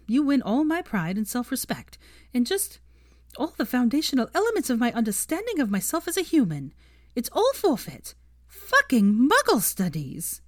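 mock despair. Hermione dramatically concedes the bet.

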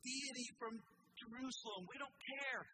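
preacher voicing the king's contempt; Nebuchadnezzar mocked. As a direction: sneer it like a haughty king. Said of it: "He was saying".

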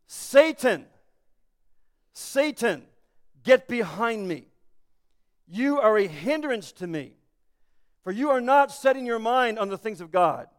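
weighty, deliberate rebuke with long pauses; stern rebuke. Acted. Jesus rebuking Peter as Satan, stern and deliberate. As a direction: rebuke him slowly, word by word.

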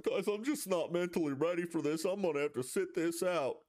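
lightly put-on folksy Southern politician voice; Bill Clinton Peyton voice. Imagining a quarterback quitting mid Super Bowl, light impression. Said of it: "that's kinda my Bill Clinton Peyton voice".

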